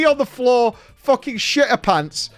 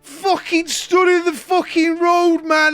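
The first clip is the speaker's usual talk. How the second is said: put-on drunk angry shout; 8 semitones higher, slower than usual. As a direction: bellow it like a furious drunk old man. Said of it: "he says this as he walks through".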